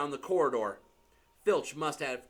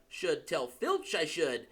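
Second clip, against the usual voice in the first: saintly voice. Acted. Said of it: "said Peeves in a saintly voice".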